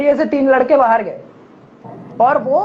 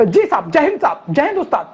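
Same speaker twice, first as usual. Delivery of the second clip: overjoyed, laughing salute; happy relieved salute. Retold or imitated. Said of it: "वो खुशी के मारे बोलता है". (खुशी के मारे जय हिंद)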